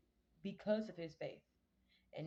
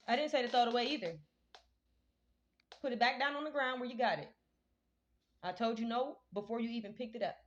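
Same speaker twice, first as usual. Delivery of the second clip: scolding shout; 4 semitones higher, 7 dB louder than usual. Real, not acted. Scolding child off camera.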